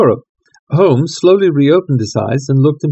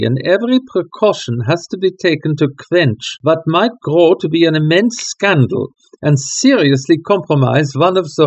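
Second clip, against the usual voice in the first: grave nobleman; 3 semitones higher than usual. Acted. Count reveals royal scandal.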